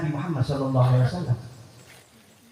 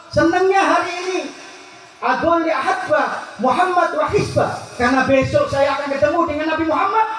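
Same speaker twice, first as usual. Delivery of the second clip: rejoicing; 10 semitones higher than usual. Retold or imitated. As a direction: savour each word with rapture. Dying Bilal rejoices.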